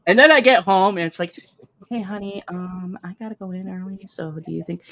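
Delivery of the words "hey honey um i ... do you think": mock sweet wife. Wife asks for early ride.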